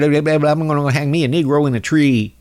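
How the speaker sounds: lightly mocking Southern twang; mock Southern accent. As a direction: imitate a bigoted Southerner. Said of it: "real Southern".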